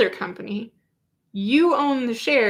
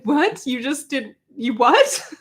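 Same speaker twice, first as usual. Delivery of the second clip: incredulous; 3 semitones higher, slower than usual. Retold or imitated. Incredulous reaction to testimony.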